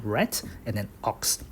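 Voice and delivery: "red" and "ox" as separate words; split into parts. Shown as a demonstration. Teacher breaking down the short form, "red" and "ox" separated. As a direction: keep "red" apart from "ox". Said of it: "even though it is short for reduction".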